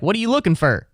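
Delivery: "for" said as "fur", pitched high; reduced final word. Shown as a demonstration. Showing what he won't say at sentence end, "for" as "fur". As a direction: end on "for" rhyming with her. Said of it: "I don't say that".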